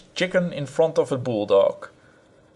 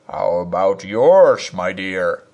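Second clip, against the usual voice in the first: dry retort; 4 semitones lower, slower than usual. Acted.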